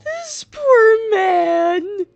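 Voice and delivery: laughing out loud, high and slow; cracking up while saying it. Real, not acted. Streamer laughing at game character.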